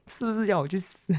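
breathless whispered giggle; mortified storyteller joking she wants to die, whispering and laughing. Real, not acted. Embarrassed joke, laughing whisper.

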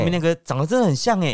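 imitating the clerk's call; mock yell. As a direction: shout 真的很像 after them. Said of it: "咆哮那种感觉".

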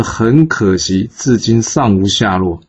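drawn-out, slow repeat of 很可惜，至今尚无下落; mock the excuse by stretching 很可惜 slowly; 很可惜 said slowly with a scornful drag; slow mocking echo. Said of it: "齐襄公一听到这".

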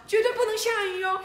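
very high, loud insistent cry; mother shouting. Acted. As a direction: shout it so the whole square hears. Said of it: "妈妈大喊着". (妈妈高声大喊)

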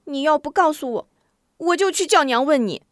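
put-on high, pert little girl threatening to tell; a cheeky sister holding it over him. Sister threatens brother, pert high girl voice.

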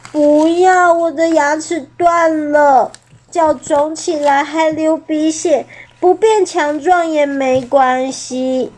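a big scared dinosaur who won't try; sulky uncle voice, slowing at the end; timid T-rex uncle. Acted.

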